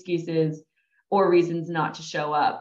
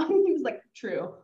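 laughing; 9 semitones higher than usual. Real, not acted.

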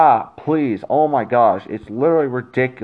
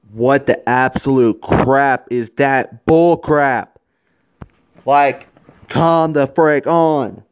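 slow angry rant; slower than usual. Real, not acted. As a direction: spit out each word in disbelief. Angry rant about the booking.

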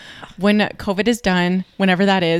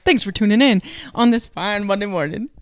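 a light sportscaster read; lightly voiced sports announcer. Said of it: "I wanna sound like a sportscaster".

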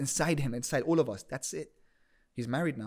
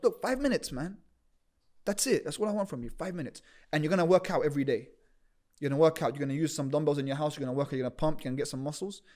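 pep talk push. Retold or imitated. Pushing him to commit daily.

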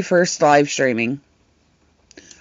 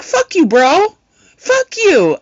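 playful mock cursing; 10 semitones higher, slower than usual. Friend cursing at the streamer in jest, high. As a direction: toss it out up high, joking.

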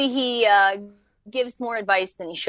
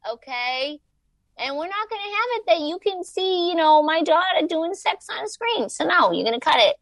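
mom voice. Retold or imitated. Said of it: "she's like".

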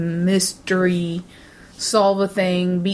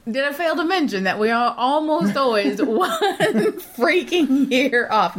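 laughing; 6 semitones higher than usual. Real, not acted. Laughing at their own mistakes.

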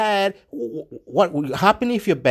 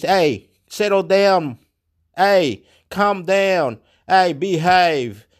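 slow calming command; slower than usual. Acted. Acted telling people off.

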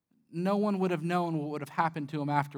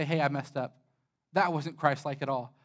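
contrite apology; 5 semitones lower, 4 dB quieter than usual. Acted. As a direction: lower pitch, mild acted admission of fault. Acts out own humble apology.

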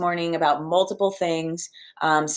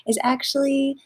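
relieved joy; 8 semitones higher, 3 dB louder than usual. Real, not acted. Telling listeners her old dog will be okay, overjoyed relief. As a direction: voice jumps high and loud with relief.

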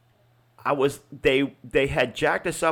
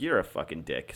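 retold insult; 10 semitones lower, 6 dB quieter than usual. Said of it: "'cause I was like".

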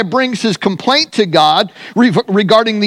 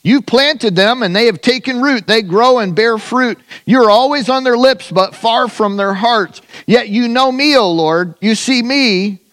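raised, intoned scripture prayer; preaching prayer; 3 semitones higher than usual. Acted. Preacher praying Jeremiah's complaint to God, raised and intoned. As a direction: pray it out like a preacher.

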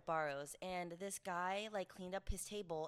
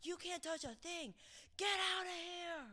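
high-pitched, hammed-up rant; mock scolding; 7 semitones higher than usual. Worker telling off a customer who cleaned the table, mock outrage. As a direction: order them out in mock outrage.

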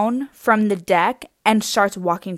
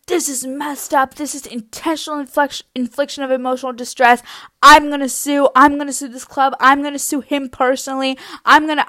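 indignant rant, pitched slightly up; mock-outraged venting to friends; upset ranting; 3 semitones higher than usual. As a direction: fire off hammed-up threats in a huff. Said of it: "getting really upset".

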